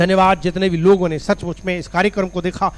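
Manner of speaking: earnest, pressing intercession; insistent public prayer; fervent prayer. Real, not acted. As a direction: plead aloud on behalf of the people. Prays for the viewers.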